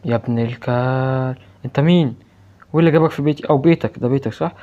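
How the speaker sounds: angry shout. Real, not acted. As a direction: shout him down, outraged. Yelling at the ghost in house. (صراخ غاضب)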